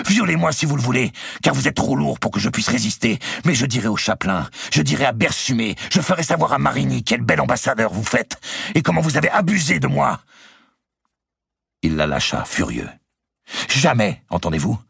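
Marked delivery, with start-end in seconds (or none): 0.1-10.2 much higher, louder defiant cries; shouting. Acted. Marguerite threatening Robert as he carries her, high shouting. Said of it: "criait-elle". 13.7-14.8 much higher, louder defiant shout; furious cry. Acted. Marguerite defying Robert, furious high shout. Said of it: "poursuivit-elle".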